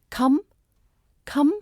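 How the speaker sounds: "come" with a short, clean vowel. Shown as a demonstration. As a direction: say "come" short, without heavy stress. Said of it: "short, clean, no heavy stress".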